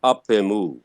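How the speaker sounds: "Apemu" joined, falling at the end; as one word. Shown as a demonstration. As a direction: run "Apemu" together as one. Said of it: "Just as one".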